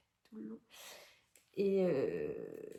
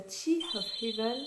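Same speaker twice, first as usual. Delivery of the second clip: English title with a French accent; accent français en anglais; 3 semitones higher than usual. Real, not acted. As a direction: say the English name as a French speaker would. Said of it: "je suis désolée pour mon accent anglais". (accent français sur les mots anglais)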